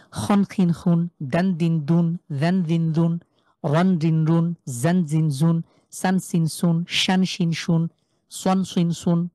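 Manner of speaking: distinct Arabic consonant opening each set like "জন জিন জুন", ending in n; tanween pronunciation drill. Shown as a demonstration. Teacher running through the Arabic letters with tanween, measured drill recitation. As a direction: recite "খন খিন খুন" evenly, each syllable closing on n. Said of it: "শেষে একটা ন".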